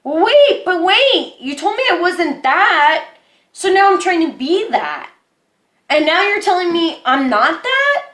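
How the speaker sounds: replaying her own baffled protest; exasperated disbelief. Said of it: "and then I'm like".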